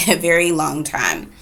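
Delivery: a very long time said through a laugh; laughing repeat. Shown as a demonstration. Mother repeating to Dana how long she was stuck, with a laugh. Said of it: "I've been here for a very long time".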